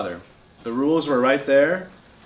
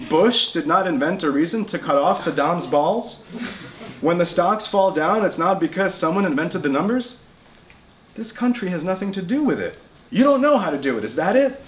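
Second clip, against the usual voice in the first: heated grandfather; 6 semitones higher, 3 dB louder than usual. Acted. Grandfather voiced in argument.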